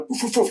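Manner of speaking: soft puffed mock barks; imitated dog barking. Dogs greet Frank in the park, imitated barking. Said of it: "they start barking at him".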